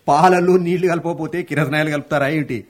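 laughing at the headline as he repeats it; amused scoff. Real, not acted. Reading the paper alone, mocking the headline with a laugh. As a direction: chuckle through it, mocking the news.

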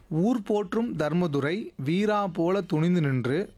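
slow, measured game-host reading; puzzle sentence read-out. Acted. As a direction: read it out slowly, phrase by phrase. (புதிர் வாக்கியத்தை நிதானமாக வாசித்தல்)

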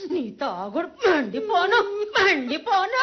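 crying curse on his drinking; sobbing curse. Acted. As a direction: curse the drink through sobs. Cursing the dead man's drinking.

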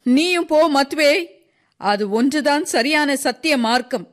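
high-pitched, impassioned speech as Sisov; Sisov, impassioned old worker. Acted. Sisov tells the crowd about his killed son, impassioned. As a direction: declare it with rising conviction, pitched high.

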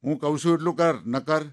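put-on bossy old husband losing patience; a hint of a stern husband's temper; true temper showing. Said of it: "અસલી મિજાજમાં આવી ગયા".

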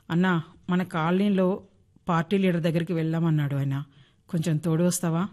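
gently begging the neighbour for help; a touch of helpless pleading. Acted. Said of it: "దీనంగా అడిగింది".

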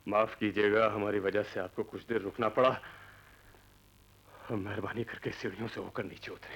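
imitating a low, courteous request; politely courteous. Man retelling how the children invited them, courteous. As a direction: quote the polite apology in a low monotone. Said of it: "बड़ी शालीनता से कहा था".

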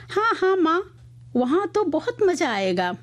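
put-on high, gleeful child's reply; excited, happy children. A narrator's reading. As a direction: chime in with joyful eagerness. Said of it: "खुशी से उछलते हुए बोले". (खुशी से चहकते बच्चों की आवाज़)

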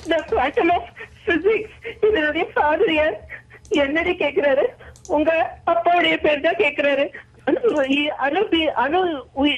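put-on tearful delivery; hammed-up sobbing performance; acted crying. Shown as a demonstration. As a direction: play the dialogue weeping, dragging out the last words. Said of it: "அடுத்து அழுதுகிட்டே".

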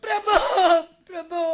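tearful. Acted. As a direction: call to him through tears, fading. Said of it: "அழாதே". (அழுதபடி கெஞ்சலாக)

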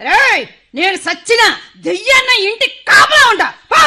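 mother shouting at her son; angry shout. Acted. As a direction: drive him out of the house.

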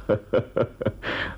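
brief unvoiced chuckle; small pained laugh; bitter laugh. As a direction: laugh ruefully, without joy. Bitter laugh at feared hatred.

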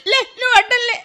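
weeping complaint; crying. Acted. Wife weeps to her husband that she can't go on. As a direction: sob out the complaint.

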